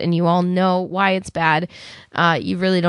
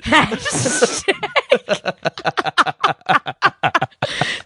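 burst of laughter; 5 semitones higher than usual. Real, not acted. Laughing at joke.

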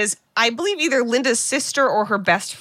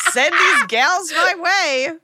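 put-on slow, higher breathy come-on like an old phone-line ad; sultry ad voice; 7 semitones higher, 3 dB louder, much slower than usual. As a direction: purr it like a late-night hotline commercial.

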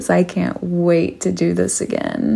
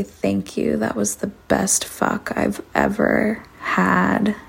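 muffled voice; 3 semitones higher than usual. Acted. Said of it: "in a muffled voice with the gag still in my mouth".

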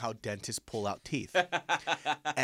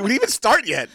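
dentist voice; 11 semitones higher, 13 dB louder than usual. Retold or imitated.

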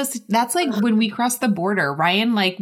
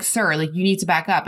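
border guard; 4 semitones lower than usual. Retold or imitated.

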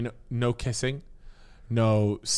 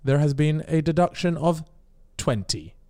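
flat mechanical AI announcer voice; Lana robot voice; 2 semitones higher than usual. Retold or imitated. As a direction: read it like a cold robot host. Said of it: "like, in the robot voice".

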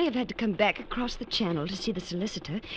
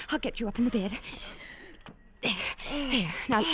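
ordinary talk, nothing marked

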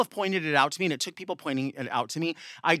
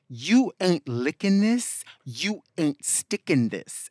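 quoting a rapper; 2 semitones higher, much slower than usual. Retold or imitated. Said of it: "And Lil Kim, the prophetess, once said".

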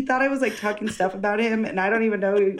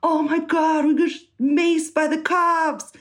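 mock panicked screaming; 8 semitones higher than usual. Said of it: "they start, like, screaming".

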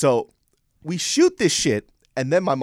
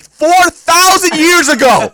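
high, loud and slow through laughter; cracking up while mocking; laughing mockery; 15 dB louder, slower than usual. Real, not acted. Son laughing at his mom's old wedding story, loud laughing mockery.

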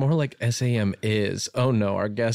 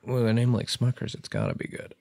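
ad announcer voice; 4 dB quieter, faster than usual. Pretend. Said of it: "It's an ad".

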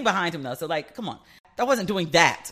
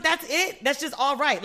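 retold disbelief; 7 semitones higher than usual. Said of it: "And I was like".

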